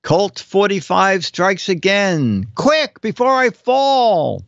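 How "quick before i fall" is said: urgent. Acted. Horse caption acted.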